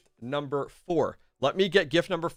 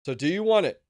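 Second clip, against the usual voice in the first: hyped giveaway announcement; 5 dB louder than usual. Real, not acted. Asking winner to choose prize.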